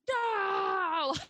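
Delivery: laughing cry of no. Retold or imitated. Host acting Faramir laughing at Boromir's joke, a high shriek. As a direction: burst out a shrieking no. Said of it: "he's just like".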